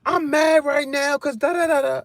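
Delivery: a hint of an annoyed girlfriend; mock angry girlfriend. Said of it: "She like".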